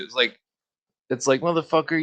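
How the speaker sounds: ordinary delivery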